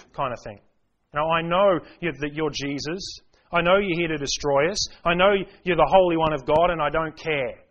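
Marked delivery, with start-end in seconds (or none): 1.3-7.6 mock defiant demon, louder in places; lightly voiced demon taunting Jesus. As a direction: toss off a demon's taunting challenge. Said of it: "what this demon was getting at".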